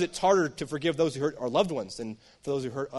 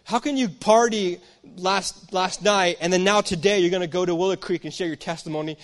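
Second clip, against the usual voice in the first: accusing brother; 2 semitones higher than usual. Retold or imitated. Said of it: "So he says".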